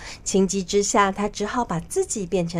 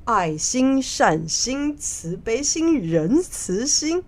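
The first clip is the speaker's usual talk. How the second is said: smiling, teasing; 4 semitones higher, 4 dB louder than usual. Acted. Fake monk showing the minister all his hearts, teasing. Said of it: "他笑着说".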